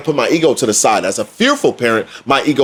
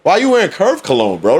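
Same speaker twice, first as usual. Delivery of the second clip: higher mock-puzzled father; father questioning son; 5 semitones higher than usual. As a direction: tease the son about his cologne. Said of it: "father questioning his son".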